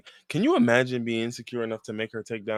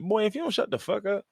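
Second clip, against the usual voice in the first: high, softer squeezed scoff; exasperated dismissal; 10 semitones higher, 5 dB quieter than usual. Real, not acted. Fed up with his therapy language, exasperated. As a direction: wave it all away in a high voice.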